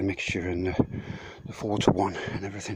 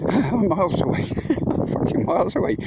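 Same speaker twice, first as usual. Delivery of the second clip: laughing; 9 semitones higher than usual. Real, not acted. Laughing, gloating.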